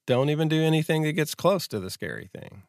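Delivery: fast, nagging warning; anxiety's nagging voice. Retold or imitated. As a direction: rush it like a nervous inner voice. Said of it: "Then anxiety says".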